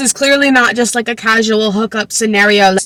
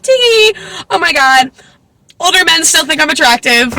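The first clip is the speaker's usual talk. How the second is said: giddy flattered squeal; 7 semitones higher than usual. Acted. Voicing flattered heroine.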